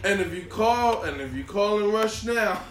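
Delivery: hard sell ad. Pretend. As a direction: sell it like a late night TV ad. Parody infomercial pitch.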